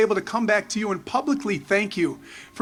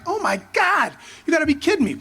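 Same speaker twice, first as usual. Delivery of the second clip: thrilled disbelief; 6 semitones higher than usual. Retold or imitated. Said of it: "I'm like".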